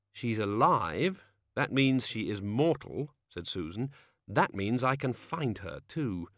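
calm, measured determined voice; slow, cool young woman. Acted. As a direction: speak slowly, coolly resolved. Susan voiced in story.

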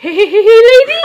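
high, loud squeaky chipmunk greeting. Retold or imitated. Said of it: "he got a little chipmunk voice".

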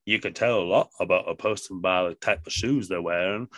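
a hint of a folksy movie quote; Forrest Gump impression. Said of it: "like Forrest Gump said".

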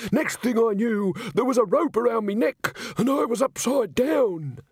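high, dramatic, indignant account; high-pitched breathless witness; agitated victim. A narrator's reading. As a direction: tell it as a great ordeal. Victim recounts the attack.

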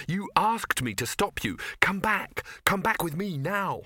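high, insistent plea; urgent pleading. A narrator's reading. Man begging Ginger to come back, high and urgent.

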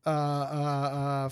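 slow, drawn-out wookiee groan; lightly imitating Chewie's growl; Chewbacca impression. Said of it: "give me your best Chewbacca".

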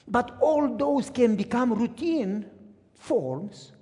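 emphatic sermon delivery with deliberate pauses; preaching. Real, not acted. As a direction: drive the moral home to a congregation. Preaches the moral after the story.

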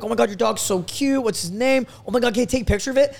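fast, high gushing over a cute dog; gushing excited. Retold or imitated.

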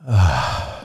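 low soft groan of awe; a quiet overwhelmed ugh; low groan as if struck by it; awed groan. Shown as a demonstration. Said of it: "You're supposed to go".

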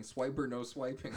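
high scolding cartoon voice; a light Dora impression. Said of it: "she kept saying".

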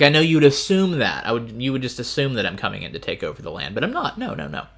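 lightly acted condescension; arrogant. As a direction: imitate someone breezily presumptuous. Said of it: "kind of arrogantly here".

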